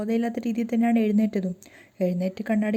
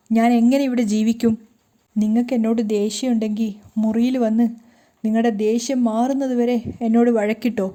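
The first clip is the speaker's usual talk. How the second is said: crying while speaking; 4 dB louder than usual. Acted. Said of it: "കരഞ്ഞുകൊണ്ട് തന്നെ രേവതി പറയാണ്".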